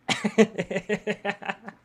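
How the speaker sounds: high, loud, hammed-up wailing sobs; acted sobbing. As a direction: burst into exaggerated stuttering sobs. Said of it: "This time the tears flowed".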